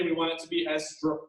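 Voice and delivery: hiccuping mid-word; broken off by a hiccup. Real, not acted. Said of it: "excuse me, I've got hiccups".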